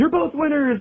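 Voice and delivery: very high, teasing, jokey delivery. Recounting to the hosts what someone said as the show ended, retelling a joking remark. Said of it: "James kind of jokingly went".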